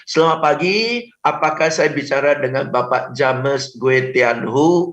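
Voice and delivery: slow, stiff reading of the full name; limp scripted greeting. Shown as a demonstration. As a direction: sound like a bored telemarketer. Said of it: "Udah langsung tolak". (sapaan kaku dan lemas ala telemarketing)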